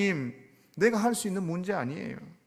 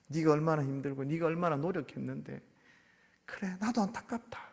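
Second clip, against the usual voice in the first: soft, gentle consoling; comforting mother; 3 semitones lower, 3 dB quieter than usual. Retold or imitated. Mother consoling her child after a bad test, soft. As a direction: hush and soothe like a mom holding her child. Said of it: "이렇게 해주는 것처럼".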